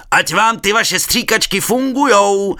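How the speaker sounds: slow loud high yell; shouting across the water. A narrator's reading. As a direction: call it over the river. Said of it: "zakřičel přes vodu".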